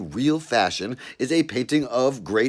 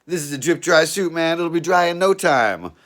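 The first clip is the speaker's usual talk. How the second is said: raised, louder pleading voice; nervous explaining; 8 semitones higher, 6 dB louder than usual. Acted. Caught naked in the bushes, pleading loudly with the cop. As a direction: talk your way out of trouble.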